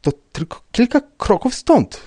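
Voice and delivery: nervous, high-pitched urging; trembling voice. A narrator's reading. Rybka leading the commissioner to the tracks, trembling voice. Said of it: "rzekł pan Rybka drżącym głosem".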